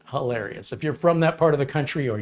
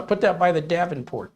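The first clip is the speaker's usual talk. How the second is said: higher-pitched mock Wisconsin accent; casual instruction in a put-on Midwest accent; lightly acted Upper Midwest local; 6 semitones higher than usual. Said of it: "within a certain region speak a certain way".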